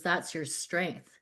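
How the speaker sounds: slow, soft and moved; quietly heartfelt, taking your time; getting emotional. Real, not acted. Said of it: "I'm getting emotional talking about it".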